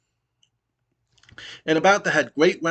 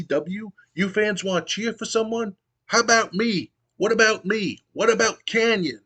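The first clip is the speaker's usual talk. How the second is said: higher-pitched whiny wrestler promo, rising into pleading; pitched-up whining heel promo; Kanyon's complaint; 6 semitones higher than usual. Retold or imitated. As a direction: beg the crowd for attention, climbing higher. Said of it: "Kanyon goes".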